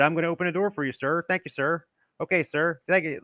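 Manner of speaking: lightly voiced polite older man; imitating a polite old gentleman. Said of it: "And what it sounds like".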